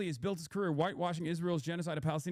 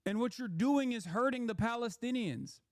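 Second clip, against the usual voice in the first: mocking quote; 7 semitones higher than usual. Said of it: "He's like".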